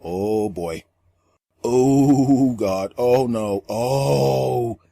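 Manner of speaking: low, hushed dismay; dismayed crowd. Retold or imitated. Stunned onlookers react to the awkward moment, hushed low dismay. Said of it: "They're like".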